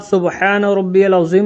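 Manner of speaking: "अज़ीम" with z, as azeem; correct Arabic pronunciation. Shown as a demonstration. Teacher giving the form some cannot say, "अज़ीम" with z. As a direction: keep a buzzing z in "अज़ीम". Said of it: "नहीं कह पाते हैं तो".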